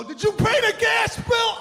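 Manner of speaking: high, loud hammed-up yell; mock shout. Husband mocks chatting to wife mid-class, high shouting. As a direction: holler it across to your partner mid-workout.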